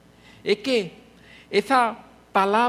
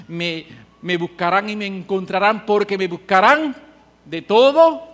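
prophet's call; 7 dB louder than usual. Acted. Preacher quoting prophet, rising.

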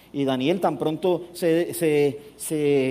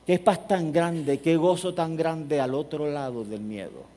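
slow savouring; slower than usual. Real, not acted. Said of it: "preacher savouring the line".

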